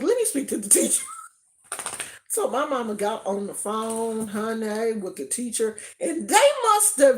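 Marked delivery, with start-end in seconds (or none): 0.0-1.0 demanding mom. Retold or imitated. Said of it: "My mom was like".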